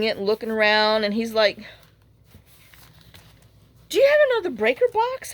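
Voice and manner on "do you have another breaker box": mimicking the repairman. Retelling the repairman's question.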